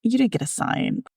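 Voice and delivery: retold inner voice, "see?" lifted high; doubting inner voice. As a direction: pitch it up as the nagging voice in your head. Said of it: "And there's that voice".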